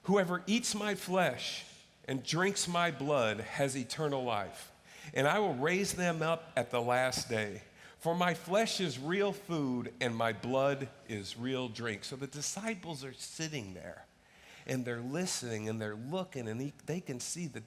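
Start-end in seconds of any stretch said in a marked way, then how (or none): 0.1-12.0 scripture read aloud. Acted. Congregation reads scripture aloud.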